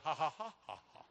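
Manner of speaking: rhythmic mock ha-has, tailing off; staged sing-song laugh; imitated laughing. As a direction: mimic a congregation's chanted laughter. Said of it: "These people are going".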